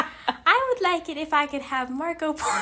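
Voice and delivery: high, loud joking plea; teasing make-believe request, giggling; mock request through laughter. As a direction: playfully plead while laughing.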